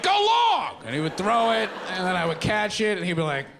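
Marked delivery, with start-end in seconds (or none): 0.0-0.8 high, loud dad call across the yard; mock dad shout. Imagined dad throws condoms, shouting to son. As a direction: yell it like tossing a football.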